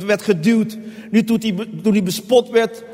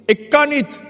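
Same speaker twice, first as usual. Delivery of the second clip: high, raised cry of refusal; desperate plea; 7 semitones higher than usual. Acted. Preacher voices Jesus' flesh refusing, desperate plea. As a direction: plead that it is too much. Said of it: "ik ben bang".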